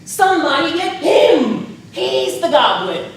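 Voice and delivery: loud, cheeky accusing yell; mocking shout back. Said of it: "look back at me and say".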